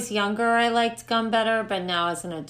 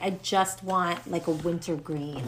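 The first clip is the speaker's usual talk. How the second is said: weary grown-up; 4 semitones lower, 5 dB quieter than usual. Retold or imitated. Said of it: "you get older and you're like".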